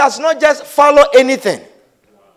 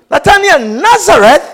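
louder, astonished echo; incredulous exclamation; 3 semitones higher, 5 dB louder than usual. Retold or imitated. Preacher acting Nathanael hearing of Nazareth, exclaiming. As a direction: exclaim the town's name in disbelief. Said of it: "exclaimed Nathanael".

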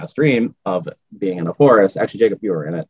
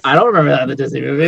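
incredulous; 8 semitones higher, 6 dB louder, faster than usual. Real, not acted. Shocked at gory fairy tale.

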